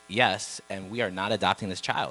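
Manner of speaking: retold emphatic refusal, loud and deliberate; firm refusal. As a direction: put your foot down, retelling it. Husband retells his firm refusal to wife.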